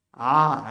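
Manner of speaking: "A" voiced from the throat, loud; guttural Ain sound. Shown as a demonstration. Teacher demonstrating the guttural "A" to students. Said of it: "c'est un son qui ressemble au A".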